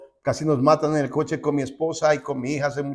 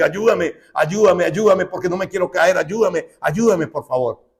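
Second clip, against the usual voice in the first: tearful pleading prayer; 6 semitones higher, 5 dB louder than usual. Retold or imitated. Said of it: "está llorando, y dice".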